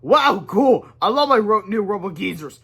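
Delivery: high, loud delighted cheer; excited kid cheer. Acted. Kid thrilled about new robot grandparents, excited cheer.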